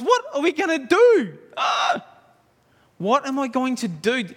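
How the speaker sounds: high, loud terrified wail; panicked cry. Acted. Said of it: "So his servant cries".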